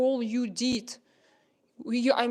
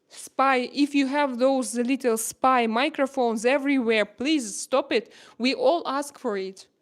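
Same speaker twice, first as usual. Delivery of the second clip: emotional plea; 2 semitones higher, 5 dB louder than usual. Real, not acted. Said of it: "it was my emotional".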